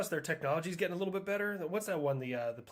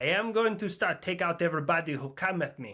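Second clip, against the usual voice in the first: put-on accent from Israel; 6 dB louder than usual. Speaker does a line in an Israeli accent. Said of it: "that accent is difficult for anybody who's not Israeli".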